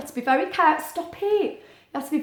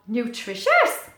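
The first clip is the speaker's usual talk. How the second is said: squawk; 3 dB louder, slower than usual. Acted. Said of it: "squawked the cat".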